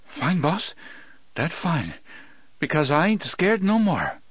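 high, shaky bravado. Acted. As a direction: fake brave Cajun voice. Del claims he's unafraid.

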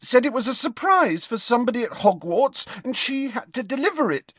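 put-on high, tearful girl's voice breaking into crying; a frightened friend near tears; high girl voice, sobbing at the end; distraught girl.

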